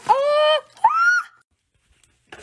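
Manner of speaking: delighted high screams, real and loud; rising squealing screams of joy; excited screams. Real, not acted. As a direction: scream with pure glee at the gift. Unboxing, thrilled by the gift.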